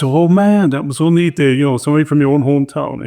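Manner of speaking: excited exclaim. Retold or imitated. Thrilled to meet a hometown man.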